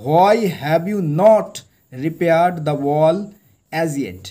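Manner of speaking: furious emperor scolding his servant; thundering. Acted. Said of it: "He thundered".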